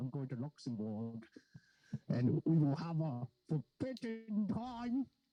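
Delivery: clumsy, loud, bad put-on German accent. Joking about how to say Luxembourg, in a bad German accent. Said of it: "you gotta say it like a German accent".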